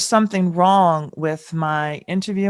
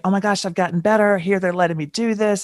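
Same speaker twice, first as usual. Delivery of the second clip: retold excitement; 4 semitones higher than usual. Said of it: "like thinking".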